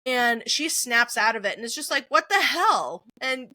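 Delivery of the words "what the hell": higher, louder imitated bewilderment; startled outburst. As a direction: act out snapping awake in shock. Character snaps out, startled.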